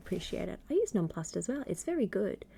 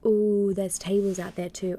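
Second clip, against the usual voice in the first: 1 excited; 7 dB louder than usual. Real, not acted. Excited commentary on match.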